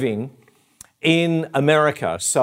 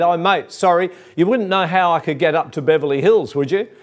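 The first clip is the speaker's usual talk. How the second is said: higher, quick apologetic request, lightly acted; calling across; 4 semitones higher, faster than usual. Lost driver asking the next car for directions, calling across. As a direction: imitate calling over to another driver. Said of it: "I called across".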